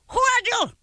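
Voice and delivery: put-on accented, suspicious demand; distressed mother. Mother to unknown caller, distressed first challenge. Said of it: "the who is a very distressed who".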